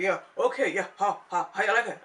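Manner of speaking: lightly voiced diva boasting, a touch loud; sassy mock brag about her body; mock Plastica voice. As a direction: play the proud show-off, a little hammed-up. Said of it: "She's like".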